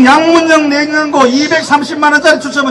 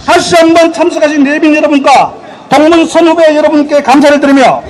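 earnest ceremonial address to alumni; formal closing speech; 2 semitones higher than usual. Acted. Closing speech at alumni sports day.

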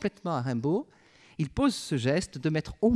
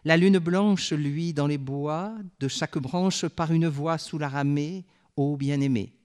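poem recital. Acted. Teacher reading the bonne chanson stanza aloud, lilting. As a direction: savour each short line like a song.

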